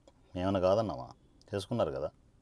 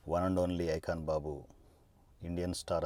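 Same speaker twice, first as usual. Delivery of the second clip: mocking slogan; 2 semitones lower, 4 dB quieter than usual. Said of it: "అని చెప్పేసి అంటుంటారు".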